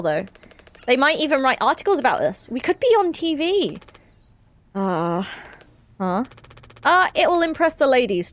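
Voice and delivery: lightly acted crew chatter, close to own voice; voicing game dialogue. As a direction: read the crew's lines casually. Voices game characters' dinner chat.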